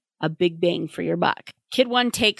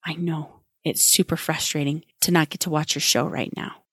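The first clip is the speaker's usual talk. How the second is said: gentle parent voice. Shown as a demonstration. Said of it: "then you hold the line".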